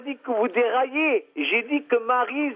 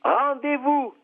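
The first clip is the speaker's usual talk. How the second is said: "Rendez-vous" pitched up for a hard-of-hearing listener; emphatic repeat; 4 semitones higher, slower than usual. Real, not acted. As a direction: say "Rendez-vous" higher, as one clear separate word.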